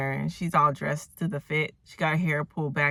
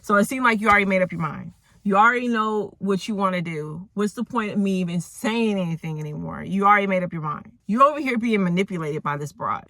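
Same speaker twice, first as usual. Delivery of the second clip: retold indignant outburst, mildly heated; mock livid; 3 semitones higher, 3 dB louder than usual. Ray objects that the judge already decided, mildly livid. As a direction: argue it with a touch of pushy exasperation. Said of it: "Ray is really livid now".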